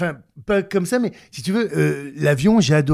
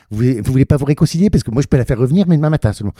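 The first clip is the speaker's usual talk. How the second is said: loud, joking go-between; plain-spoken, informal; 6 dB louder, faster than usual. Acted. Steward offering to reconcile passenger with suitcase, informal. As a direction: play matchmaker to passenger and suitcase. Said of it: "que je leur parle simplement comme ça".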